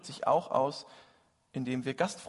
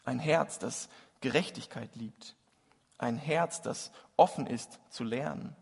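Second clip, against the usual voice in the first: measured litany, each line set apart; solemn recitation. Acted. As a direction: recite it like a prayer poem.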